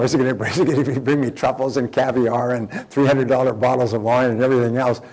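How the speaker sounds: comic inner panic with a laugh in it; mock alarm. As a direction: fret loudly about the bill, playing it for laughs. Acted inner worry about the bill.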